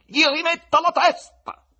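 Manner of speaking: high, forceful shouted order; loud command. A narrator's reading. Voland orders the cat, loud command. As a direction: order it at full voice. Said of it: "ordinò con voce forte".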